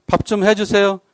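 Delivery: gentle, courteous request for the meal; polite asking. Acted. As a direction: ask your spouse kindly, no push. Asking spouse to cook politely.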